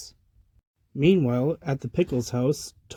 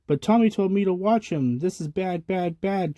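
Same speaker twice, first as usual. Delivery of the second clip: wailing; 5 semitones higher than usual. Acted. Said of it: "Chucky wailed".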